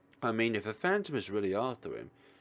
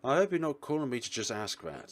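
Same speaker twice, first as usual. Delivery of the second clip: grumpy, raised voice on the phone; 5 semitones higher, 4 dB louder than usual. Acted. Woken man to his caller, grumpy. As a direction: answer a wake-up call with irritation. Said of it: "Someone's grumpy today".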